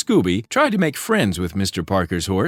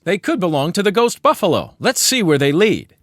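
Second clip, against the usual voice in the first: a hint of a careful young sleuth; Fred inspecting the tracks; Fred noting; 6 semitones higher, 4 dB louder than usual. A narrator's reading. Fred continues.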